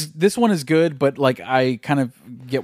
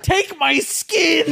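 alien voice; 12 semitones higher, much slower than usual. Retold or imitated. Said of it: "You're like".

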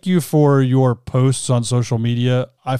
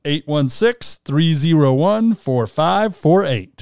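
infomercial; 2 semitones higher, much slower than usual. Shown as a demonstration. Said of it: "You sounded like an infomercial".

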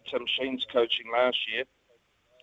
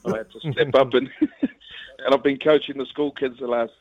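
laughing; 2 semitones higher than usual. Real, not acted. Guest laughs about coaching kids.

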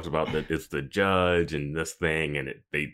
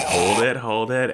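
mock director call; 5 semitones higher, 5 dB louder than usual. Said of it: "They're like".

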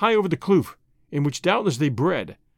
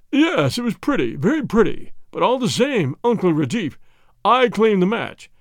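raised, insistent claim before the crowd; a touch louder, pressing his claim; 3 semitones higher, 4 dB louder than usual. Acted. Pereira loudly claims the match before Uncle Retief, raised voice. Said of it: "say in a loud voice".

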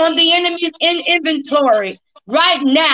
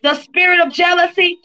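laying a curse. Real, not acted. Casting out spirits.

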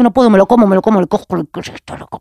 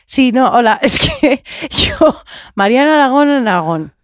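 laughing flustered intro; 2 semitones higher than usual. Pretend. Acting out a woman botching her own name, laughing. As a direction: giggle through the botched name.

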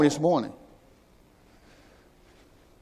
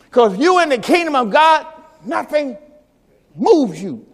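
preaching shout; 3 semitones higher than usual. Acted.

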